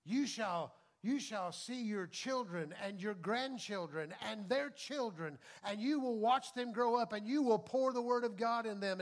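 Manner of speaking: lightly voiced prophetic pronouncement; prophetic declaration. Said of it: "I start speaking stuff like".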